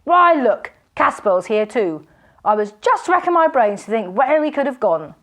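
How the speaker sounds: high, loud hearty laughter; jovial laughing robber. A narrator's reading. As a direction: guffaw at your old friend.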